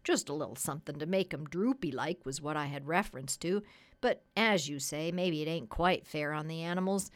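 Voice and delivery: lightly voiced folksy tradesman; chatty, lightly played sales pitch to the doctor; persuasive cat's meat man.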